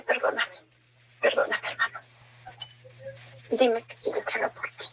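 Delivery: begging forgiveness through tears; crying. Retold or imitated. Sister begging her dead brother for forgiveness, weeping softly. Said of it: "Llorando le dije".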